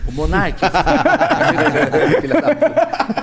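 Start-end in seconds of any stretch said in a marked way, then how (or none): 0.6-3.2 laughing hard through the words; cracking up mid-curse. Real, not acted. Laughing at friend's joke.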